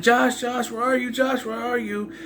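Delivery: high-pitched imitation of a woman searching; mock worried calling for someone missing.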